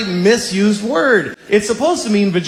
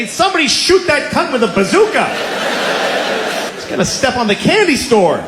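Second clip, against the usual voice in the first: high, urgent mock shout; hammed-up panicked yell; alarmed bystander; 7 semitones higher than usual. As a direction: call for help as a monster attacks. Bystander calling out in monster attack.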